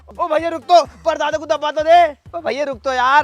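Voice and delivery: urgent begging shout; pleading call. Acted. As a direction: call after someone walking off. Calls after henchman walking off.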